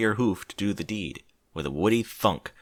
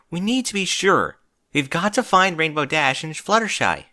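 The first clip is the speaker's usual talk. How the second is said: firm, higher take-charge voice; leadership tone; 7 semitones higher, 4 dB louder than usual. Acted. Twilight taking charge and rallying her friends, firm. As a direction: take command of the group. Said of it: "the leadership tone she sometimes got".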